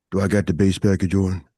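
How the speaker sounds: deep, low show-off bass voice; bass package. Shown as a demonstration. Showing the co-host his bass package, deep voice. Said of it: "Watch this".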